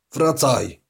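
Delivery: loud, high cry of panic; frantic shout at the screen; desperate shout. Acted. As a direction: yell for her to come back. Panics as she logs off.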